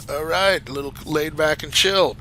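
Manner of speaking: laid-back California accent. Shown as a demonstration. Streamer showing off American regional accents, laid-back California accent. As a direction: put on a chilled-out Californian accent. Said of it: "You've got your California".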